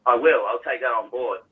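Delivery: a pointed I will, then a dry I'll take that on board; mildly loaded, mock-agreeable reply; pointed promise. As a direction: hand the wife's phrase back to her with a barb. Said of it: "Why did you just say it like that?".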